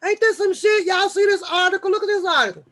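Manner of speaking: high, loud shocked outburst; shocked exclamation. Real, not acted. Showing viewers a shocking headline, high and loud. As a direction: blurt out disbelief at the headline.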